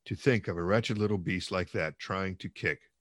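measured, dramatic novel reading; audiobook-style storytelling; story narration. A narrator's reading. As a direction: read the tale aloud with deliberate phrasing. Reads novel aloud.

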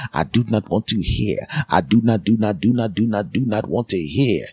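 soft, hammered do not; emphatic repetition. Real, not acted. Customer insisting he didn't want to hear, soft and emphatic. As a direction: press each not quietly. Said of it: "repeating do not".

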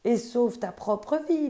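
crying out. Acted. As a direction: urge him to flee, calling out. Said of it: "lui crièrent les dieux".

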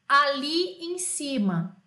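drawn-out, deliberate translation; slow gloss. Shown as a demonstration. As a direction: stretch each word for learners. Teacher spells out the translation.

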